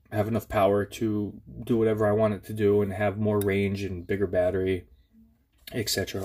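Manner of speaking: blocked nose from allergies; stuffy nose. Real, not acted. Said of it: "I'm stuffy from mowing the lawn".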